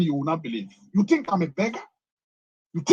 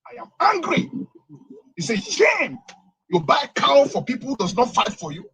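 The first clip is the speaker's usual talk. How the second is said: higher and louder, indignant shouting; angry outburst; 4 semitones higher, 4 dB louder than usual. Real, not acted. Prophet caller berating the governor, loud and indignant. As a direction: vent your outrage at being ignored.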